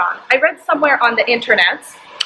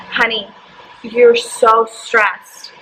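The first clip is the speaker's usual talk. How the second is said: gentle "honey"; much slower than usual. Retold or imitated. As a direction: ease it out very slowly, like soothing someone. Naturopath gently comforting crying client.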